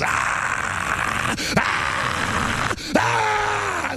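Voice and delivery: rising cries ending in a high shout; anguished cries. Real, not acted. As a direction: let the spirit cry out. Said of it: "my whole spirit just goes".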